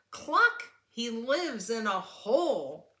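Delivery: very high, loud hen clucking; squawking hen clucks. Acted. Reading a picture book, the hen clucks, very high and loud. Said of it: "said Hen".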